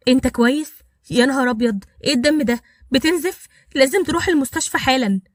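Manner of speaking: anxious rush at finding him bleeding; worried. Acted. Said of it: "قالت بقلق". (بقلق ولهفة وصوت أعلى لما شافت الدم)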